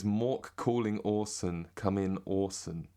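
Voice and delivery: slow British pronunciation of the catchphrase; British accent. Shown as a demonstration. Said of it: "that's me in a British accent".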